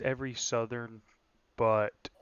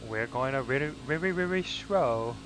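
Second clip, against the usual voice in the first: very bad Asian accent; 3 semitones higher than usual. Spotter grumbling about the pace, very bad Asian accent. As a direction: drag it out in a hammed-up Asian accent. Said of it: "with a very bad Asian accent".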